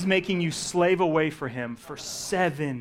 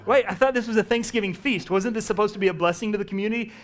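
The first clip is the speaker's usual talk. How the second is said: higher, louder laughing complaint; mock indignant guest; 5 semitones higher, 4 dB louder than usual. Hungry guest complaining to unprepared hosts, mock indignant. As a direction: act the let-down guest.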